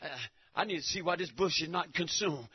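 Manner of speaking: a hint of a puzzled Moses, low and soft; soft, doubtful Moses wanting lab tests; Moses, lightly voiced. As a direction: muse like a doubting scientist. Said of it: "Moses said".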